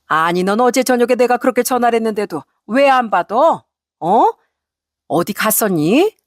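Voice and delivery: scolding, demanding questions; angry mother-in-law. Acted. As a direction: demand answers with mild acted anger. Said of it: "대뜸 화를 내기 시작했죠". (화난 시어머니의 다그침)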